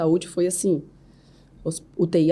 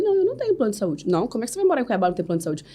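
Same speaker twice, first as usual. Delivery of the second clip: high, fast replay of the friend chat; quick mock exchange; 4 semitones higher, much faster than usual. Mother retelling a friend's question about health insurance, fast and high. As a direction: rattle off both sides of the chat, high and quick.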